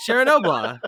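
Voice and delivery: amused copy of Chernobyl with an added "uh"; echoed mispronunciation. Retold or imitated. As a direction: laughingly repeat Chernobyl as "share-a-NO-bla". Repeats the teased mispronunciation.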